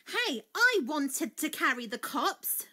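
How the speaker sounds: crying out. A narrator's reading. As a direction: cry out in slow, indignant complaint. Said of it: "she cried".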